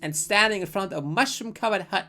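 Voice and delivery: story narration. Acted. Reads game narration aloud.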